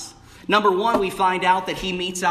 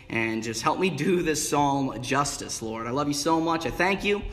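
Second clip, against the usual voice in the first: prayer. Acted. Opening prayer before the sermon.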